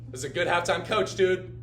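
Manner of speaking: hyped praise. Real, not acted. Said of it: "I love this dude".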